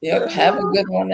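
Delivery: ordinary delivery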